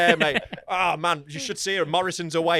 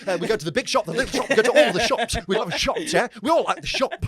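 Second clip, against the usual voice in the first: Michael McIntyre; 4 semitones higher than usual. Retold or imitated. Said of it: "such a little Michael McIntyre head nod".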